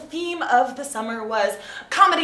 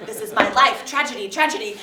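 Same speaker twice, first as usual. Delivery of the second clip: mock tragic melodrama; 8 dB louder than usual. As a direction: play the suffering child tragedian, overdone. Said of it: "I was like".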